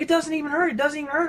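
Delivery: high, repeated in amazed disbelief; retold tearful amazement. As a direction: imitate a friend overcome with happy tears. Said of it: "he's crying".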